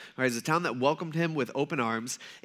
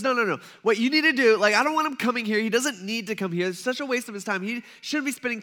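higher, urgent pleading no; insistent protest; 6 semitones higher than usual. Retold or imitated. Centurion telling friends Jesus must not come, insistent and higher. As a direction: wave them off, pressing.

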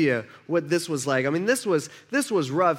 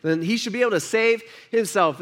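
mocking leaders; 5 semitones higher than usual. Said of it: "They're saying".

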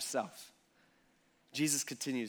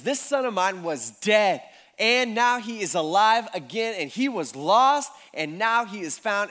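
louder, slowing to a proclaiming pace; joyful proclamation; 3 semitones higher, 6 dB louder than usual. Retold or imitated. The father proclaims his son found, joyful and louder. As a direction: announce it like a homecoming.

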